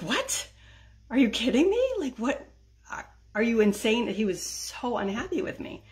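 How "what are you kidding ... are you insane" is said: higher, louder disbelieving husband; imitating an outraged husband's disbelief; mock shocked husband demanding answers; retold outrage. Husband outraged at lost cookbook.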